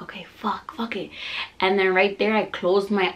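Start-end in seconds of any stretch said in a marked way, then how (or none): 0.0-1.1 soft muttered surrender; resigned. Retold or imitated. Exhausted mom gives in to pushing, resigned. Resigned reply before last push.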